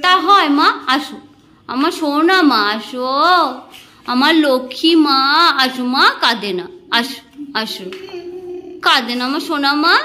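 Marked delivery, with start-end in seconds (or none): 1.7-10.0 tender coaxing. Real, not acted. Coaxing mother to come.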